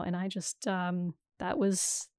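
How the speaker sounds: stifled burp; talking through a burp. Real, not acted. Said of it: "I'm drinking a lot of sparkling water right now".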